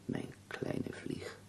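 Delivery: soft, tender endearment, fading to very quiet. Acted. Ailing poet asks companion to hold hands, soft and tender. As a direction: draw them close softly, slowing on the pet name.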